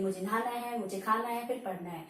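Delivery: "मुझे नहाना है", brief stop, "मुझे खाना है", brief stop, "फिर पढ़ना है"; small break after each "है", dropping on "फिर पढ़ना है"; short half-stop pauses. Shown as a demonstration. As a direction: list three phrases with slight stops after each "है". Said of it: "बीच बीच में थोड़ा थोड़ा रुकने".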